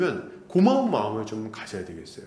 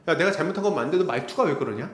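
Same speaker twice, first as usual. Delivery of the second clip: mock nitpicking; faster than usual. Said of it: "이렇게 얘기".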